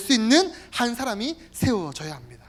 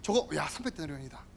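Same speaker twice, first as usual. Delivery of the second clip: calculating Judas. Acted. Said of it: "가룟 유다야".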